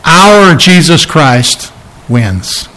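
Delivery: slow, firm and confident; bold declaration. Retold or imitated. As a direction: plant each word like a victory claim. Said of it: "we can boldly stand and say".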